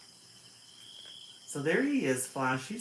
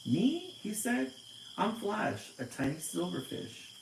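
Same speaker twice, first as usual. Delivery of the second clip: high, small fish voice full of wonder; tiny fish voice; 8 semitones higher than usual. Acted. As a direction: play the tiny silver fish, eager. Tiny fish character answers.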